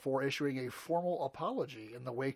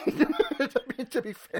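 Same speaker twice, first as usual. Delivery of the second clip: laughing; 10 semitones higher, 7 dB louder than usual. Real, not acted.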